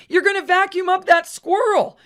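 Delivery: high urgent warning cry; alarmed shout. Acted. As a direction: shout it through the glass. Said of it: "she shouted".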